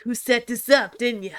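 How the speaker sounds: put-on Brooklyn accent. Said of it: "I can't do a Brooklyn accent".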